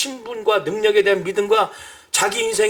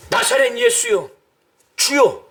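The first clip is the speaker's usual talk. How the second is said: desperate cry; 5 semitones higher than usual. Retold or imitated. Beggar crying out, louder.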